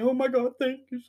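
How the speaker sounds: high, gushing fake gratitude; hammed-up high "oh my God, thank you"; mock gushing thanks. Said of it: "I'm not saying, like".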